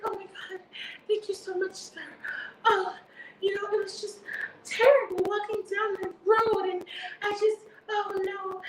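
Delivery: demure voice. Retold or imitated. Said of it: "very demure, very mindful voice on".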